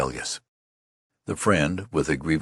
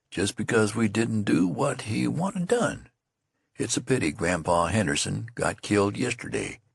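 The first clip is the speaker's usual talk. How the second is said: lightly voiced youth, higher, shrugging it off; young soldier consoling; 5 semitones higher than usual. Youth calms his angry friend: lightly voiced rueful consoling. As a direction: talk him down, rueful.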